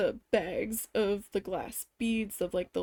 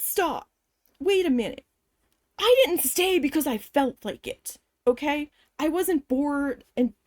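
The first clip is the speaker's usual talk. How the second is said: higher-pitched, emphatic self-defence; indignant protest; 4 semitones higher than usual. Retold or imitated. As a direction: push back firmly with raised pitch. Acted argument with manager.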